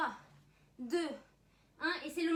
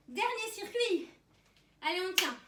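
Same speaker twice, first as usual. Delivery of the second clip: barking gym coach; 4 semitones higher, 5 dB louder than usual. Real, not acted. Coach pushing into last circuit.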